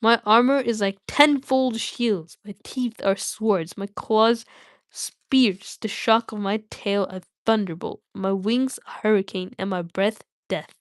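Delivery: gloating dragon Smaug. Acted. Streamer voicing Smaug's boast in the Hobbit, booming. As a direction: boom it out like a proud old dragon. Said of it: "he gloated".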